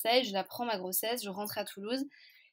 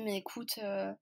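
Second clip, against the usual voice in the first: reassuring; 5 dB quieter than usual. Retold or imitated. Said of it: "elle me dit plein de trucs rassurants".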